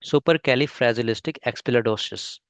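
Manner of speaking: very slow, every syllable clear; slow pronunciation demo. Shown as a demonstration. Teacher slowly models the long word for students, very slow and clear. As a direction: spell it out with your voice. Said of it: "इसका आपको pronunciation सुनाता हूँ".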